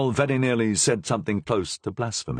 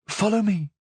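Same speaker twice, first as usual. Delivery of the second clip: curt; 12 semitones higher than usual. A narrator's reading. Superior voice.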